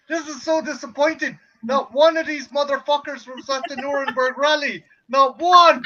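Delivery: imitating an indignant letdown; mock disappointed. Host imitates cohost finding no infamous relatives, mock disappointment. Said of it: "Jen's just disappointed".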